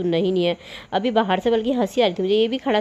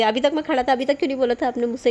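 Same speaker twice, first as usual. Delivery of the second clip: imitating a peevish complaint, higher and quick; mock-irritated, higher-pitched protest; irritable grumbling; 4 semitones higher, faster than usual. The helper grumbling at her for not speaking up sooner, mock irritable. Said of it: "फिर चिड़चिड़ा करने लगे".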